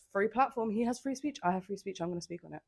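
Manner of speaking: lightly sassy self-justification; a bit sassy. Real, not acted. Podcaster defending their right to comment, a bit sassy. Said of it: "that was a little bit sassy".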